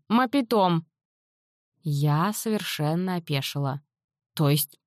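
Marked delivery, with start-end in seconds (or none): 0.1-0.9 shouting it out. Acted. Natan teaching her the word, shouting it. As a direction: fling out Мапитом as an outraged exclamation. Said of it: "Так и кричи сразу".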